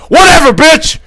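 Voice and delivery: high, forceful mock yell; hammed-up angry shouted comeback; imitated angry man. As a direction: yell it back, acting out his anger. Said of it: "this big black guy's just like".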